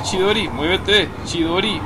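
loud, slow, high command; drawn-out urging. Real, not acted. Player urging Chidori again, loud and slow. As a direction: stretch it out, pleading with her to move.

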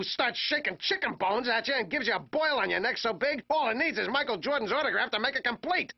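rapid-fire ranting list; escalating comedy rant. Acted. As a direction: pile on the grievances.

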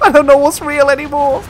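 high, loud laughing exclaim; laughing disbelief. Real, not acted. Laughing disbelief at strange planet.

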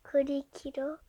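unvoiced whisper. Real, not acted. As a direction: whisper the answer. Telling the answer softly.

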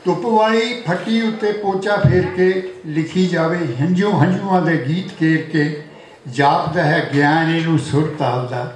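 rhythmic verse, line by line; poetry recitation. Acted. Poet honouring a friend turning eighty, rhythmic recitation. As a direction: recite each line to the room, pausing between them. Recites birthday poem to audience.

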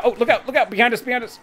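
sharp, high warning shout; alarm shout. Real, not acted. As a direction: yell the warning, high and loud. Enemy behind, warning teammate.

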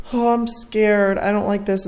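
high, uneasy whine; scared. Real, not acted. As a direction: draw out the "Oh" in high-pitched dread.

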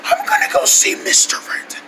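very high, sulky squeak; offended, strained squeak; wheezy voice. Acted. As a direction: grumble through a blown-out voice. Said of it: "I got a new talking voice".

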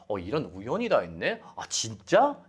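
mild surprise, rising at the end. Shown as a demonstration. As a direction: act lightly taken aback by a coincidence. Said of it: "놀라움을 표현할 수가 있습니다". (살짝 놀란 듯이)

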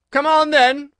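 a queen screaming a threat; furious shout. A narrator's reading. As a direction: roar the warning at the Duchess. Queen commands Alice.

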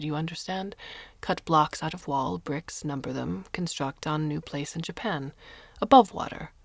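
a lightly voiced Japanese accent, calm and matter-of-fact; Hamada's Japanese accent. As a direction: explain the plan in a Japanese accent with patient politeness. Hamada explains plan, accented.

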